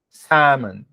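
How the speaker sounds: Salmon with a silent L, said samon; model pronunciation. Shown as a demonstration. Teacher models the correct English word for students, slowly and clearly. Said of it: "como é a forma correta de pronunciar essa palavra".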